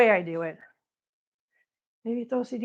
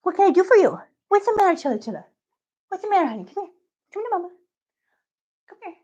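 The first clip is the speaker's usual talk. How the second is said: high cooing pet voice; 8 semitones higher, faster than usual. Real, not acted. Owner cooing to her cat Chilla, high baby talk.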